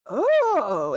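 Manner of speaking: high, drawn-out crowd ooh; crowd's rising reaction. Acted. Game master voices orcs watching the big gulp, impressed. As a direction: let the exclamation swell upward. They're kinda looking at you.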